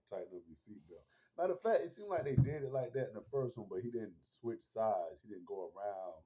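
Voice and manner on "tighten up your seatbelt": mild Joel impression. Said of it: "He's like".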